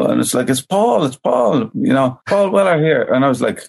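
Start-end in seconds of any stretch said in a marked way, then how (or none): 0.5-3.0 imitating a thick London accent, pitched up; a retold singer on the phone in a thick London accent. A singer introducing himself on the phone, thick London accent. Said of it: "this very thick London accent".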